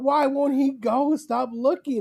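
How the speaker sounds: very high, frantic yelling. Retelling watching from the basin and shouting at Joe: imitating her own yelling. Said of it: "And I'm just yelling".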